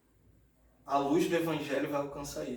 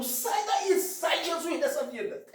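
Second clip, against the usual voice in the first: high-pitched mock fury; acted angry command; 11 semitones higher, slower than usual. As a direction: order it out like an enraged father, pitched high. Father beating son, yelling. (imitando o pai bravo, tom agudo)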